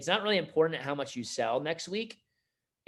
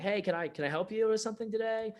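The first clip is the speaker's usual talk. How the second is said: high-pitched mock salesperson greeting; eager salesperson; 9 semitones higher than usual. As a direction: offer help in a raised, put-on voice. Salesperson greeting customer in retold story.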